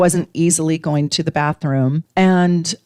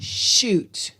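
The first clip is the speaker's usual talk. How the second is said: exasperated curse; 3 semitones higher, 6 dB quieter than usual. Retold or imitated. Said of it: "Because I was exasperated, I went".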